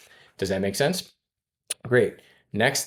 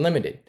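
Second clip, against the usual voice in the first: "limited" pitched high and clearly set apart; stress on limited; 6 semitones higher than usual. Shown as a demonstration. Finance manager coaching staff, "limited" pitched high. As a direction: hit "limited" up high so it sticks. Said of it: "I do wanna stress the two words".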